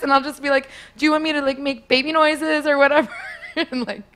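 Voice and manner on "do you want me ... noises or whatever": put-on high girlish offer, laughing at the end; playful put-on young voice; mock teen innocence. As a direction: ask it as a pretend naive girl. Continues pretend teenage role-play.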